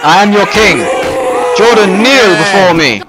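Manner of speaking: commanding king. Acted. King demands kneeling.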